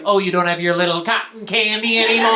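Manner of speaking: put-on condescending mom teasing her child; lightly voiced belittling mother; mocking mother. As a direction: tease as if talking down to a little kid. Imitates mother belittling his vaping habit.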